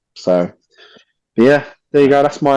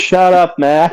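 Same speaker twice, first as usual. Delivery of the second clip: mock scoff; 7 semitones higher, 5 dB louder, slower than usual. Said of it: "he's like".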